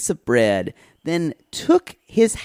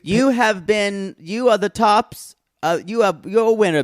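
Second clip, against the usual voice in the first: sassy drag queen; 5 semitones higher than usual. Pretend. Drag queen praise, slow high.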